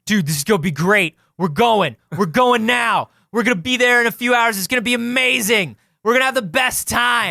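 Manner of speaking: hammed-up drunk hype; drunk excited voice. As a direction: play a wasted friend pumped for the trip. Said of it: "And you're just like".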